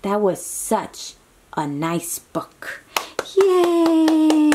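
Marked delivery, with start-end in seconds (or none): 3.4-4.5 high, loud yay at the end of the story; bright loud cheer for the little listener. Real, not acted. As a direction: celebrate the finished book.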